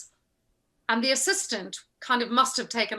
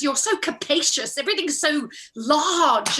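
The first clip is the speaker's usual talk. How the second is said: higher-pitched mock dismay; retold dismay; 4 semitones higher than usual. Costumier judging an undressed actor's size, dismayed. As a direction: imitate an appalled, tactless critic.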